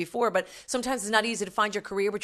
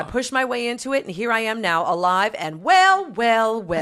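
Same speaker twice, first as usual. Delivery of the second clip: lightly camped-up letter reading; a hint of a gay fan's voice; Desmond. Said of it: "read it in Desmond's voice".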